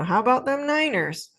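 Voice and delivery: playful deflection to football; jokey topic change. Shown as a demonstration. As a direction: steer them off politics with a grin. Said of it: "divert the conversation".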